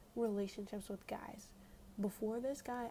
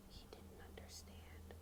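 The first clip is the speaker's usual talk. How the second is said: hushed aside; 13 dB quieter, slower than usual. Real, not acted. Teller confiding the letdown to viewers, hushed. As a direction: drop to a slow near-whisper. Deadpan aside undercutting his claim.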